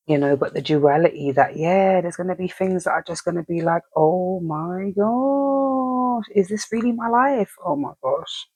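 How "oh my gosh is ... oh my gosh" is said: slow, drawn-out oh my gosh in disbelief; dismayed disbelief. Retold or imitated. Someone stunned at the hardships in their life, slow and disbelieving. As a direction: stretch it out, stunned by your own life.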